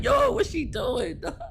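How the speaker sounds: exasperated shout. Retold or imitated. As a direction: yell it slowly in disbelief. Exasperated at cashier.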